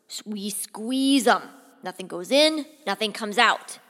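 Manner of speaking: a hint of a bombastic commander; General Scott. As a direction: punch out the battle plan with gusto. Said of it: "you're also going to hear General Scott".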